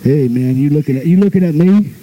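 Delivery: low, threatening challenge; low thug voice picking a fight; low menacing tough guy. Retold or imitated. Tough guy confronts him.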